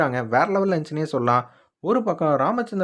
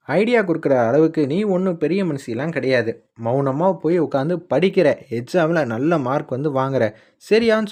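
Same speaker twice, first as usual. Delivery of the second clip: retold telling-off, somewhat louder in bursts; mild mock scolding; 3 dB louder than usual. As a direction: lightly act a stern sister laying down orders. Elder sister scolding Brinda to study. (லேசாக நடித்துக் காட்டும் கண்டிப்பான திட்டு)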